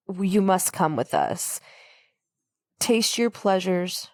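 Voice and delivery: slow, measured villain, lightly voiced; a touch of sinister, drawn-out invitation; evil voice. Co-host retelling Pinhead's invitation, lightly voiced evil. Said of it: "I love your evil voice".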